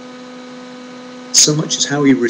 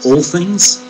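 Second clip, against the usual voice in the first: incredulous question; 6 semitones higher, 4 dB louder than usual. Pretend.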